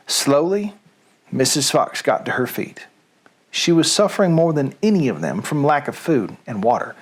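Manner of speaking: put-on story read aloud in a light Southern accent. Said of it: "Reading Things with a Southern Accent".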